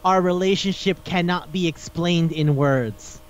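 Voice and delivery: slow, weighty quoted line; measured, hammed-up earnestness; acted solemn declaration. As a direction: intone it with mock gravity. Quoting the hero's line verbatim.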